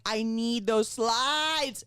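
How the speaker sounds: mild mock yell, last word stretched; understated retold yelling; imitated yelling doctor. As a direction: demand it, drawing out the end. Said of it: "she was yelling at me".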